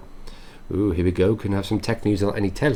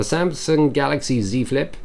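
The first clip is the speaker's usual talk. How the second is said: mock German accent; 4 semitones higher than usual. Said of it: "That was a poor accent".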